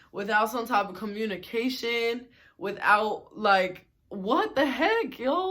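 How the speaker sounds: annoyed rant. Retold or imitated. Annoyed inner rant at roommate.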